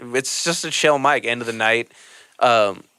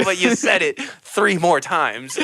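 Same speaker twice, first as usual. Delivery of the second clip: laughing; 4 semitones higher than usual. Retold or imitated. Laughing at comic.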